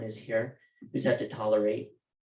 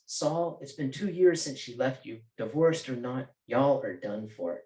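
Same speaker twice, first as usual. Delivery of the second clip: put-on Southern accent; 3 semitones higher than usual. Anne scolding Saul about his divorce, in a Southern accent. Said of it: "Anne's Southern accent comes out when she's frustrated".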